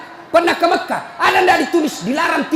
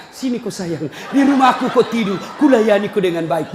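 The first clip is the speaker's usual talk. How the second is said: mock tender; 5 semitones lower than usual. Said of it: "Langsung Nabi bilang pacarnya".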